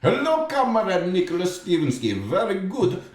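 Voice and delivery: high put-on Russian accent. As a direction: greet him in a hammy Russian accent. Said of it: "Russian voice".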